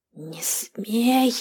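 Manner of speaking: a first angry hiss, held back; hissed warning. Acted. Hag recoiling from the mirror, hissing at the captive. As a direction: hiss it, the rage just starting. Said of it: "прошипела Карга".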